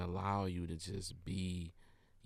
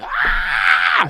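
excited shout; 3 semitones higher, 19 dB louder than usual. Retold or imitated. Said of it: "I was like".

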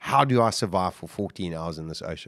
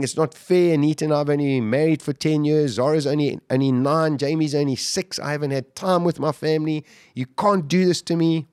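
high, raised protest to God, a mild mock rant; retold ranting at God; 5 semitones higher than usual. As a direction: plead and protest at the sky. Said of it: "just screaming at God".

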